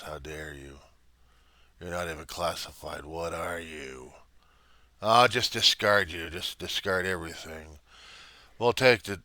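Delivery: a lightly voiced sneering supremacist, taunting; arrogant alpha bully. Alpha bully taunting the Reverend, lightly sneering. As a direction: look down your nose and taunt.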